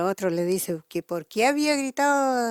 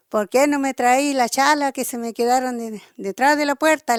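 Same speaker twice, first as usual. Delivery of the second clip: louder and higher toward "puerta"; calling out, building; 3 semitones higher, 4 dB louder than usual. Retold or imitated. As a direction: shout the demand across the canal. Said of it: "le grita y le dijo".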